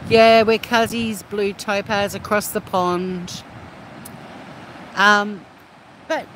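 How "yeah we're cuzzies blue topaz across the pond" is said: friendly call-out. Real, not acted. Greeting a New Zealand chatter.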